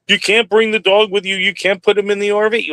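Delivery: quoting the company. Retold or imitated. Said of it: "they say".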